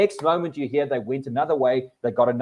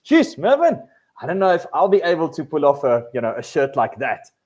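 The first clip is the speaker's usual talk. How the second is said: backhanded compliment; 3 dB louder than usual. Retold or imitated. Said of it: "they give backhanded compliments".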